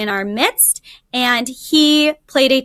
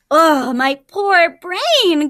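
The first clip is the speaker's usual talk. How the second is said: slow, fretful wail of a confused jackal; mock lament; 4 semitones higher, much slower than usual. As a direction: play dumb, moaning over his poor brain. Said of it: "cried the jackal".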